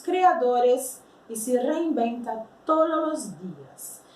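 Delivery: careful Spanish text reading; reading aloud. Acted. Teacher reading a Spanish passage to students, measured.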